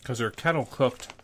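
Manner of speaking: talking while crunching chips. Real, not acted. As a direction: mouth full of crunchy chips. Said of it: "you can hear me crunching".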